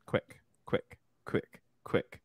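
quick, hushed whisper; urgent whisper. Real, not acted. Pressing Jeff for a quick answer.

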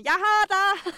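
high, loud proud parent; bright playful "I've got you"; cheery parent catch. Retold or imitated. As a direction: call it out like a parent catching a jumping child. Parents catching child, acted.

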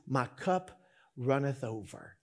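soft, low and unhurried; hushed, understated reverence; tender little girl's line. Acted. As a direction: quote it gently, almost to yourself. Little girl speaks tenderly to grandma.

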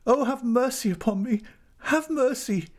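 very high, desperate begging; anguished high-pitched entreaty; shrieking plea. A narrator's reading. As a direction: beg for mercy in a high shriek. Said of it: "she shrieked".

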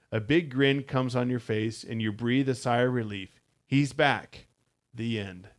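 steady storybook read-aloud to the listener; story narration. Acted. Host reads the space story to cohost, narrating. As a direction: tell the adventure like a bedtime book.

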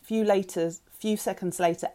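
ordinary delivery, nothing marked

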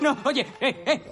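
ordinary talk

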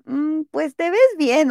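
grudging compliment. Retold or imitated. Friend reluctantly approving an outfit, slow and doubtful. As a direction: sound like you don't really believe it. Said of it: "el tonillo es como de".

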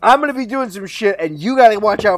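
mock rogue voice. Friend jokingly voicing Hugo bossing the king, hammed-up. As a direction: play it like a shady buddy asking a favour.

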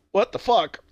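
high-pitched mock shock; shocked disbelief. Man finding her bloody, acted shock. He finds her throat cut.

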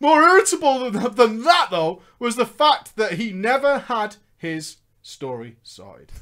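projected read-aloud storytelling; narrating a gaming memoir; story narration. Acted. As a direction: read the tale out to listeners. Reads story aloud amid own chat.

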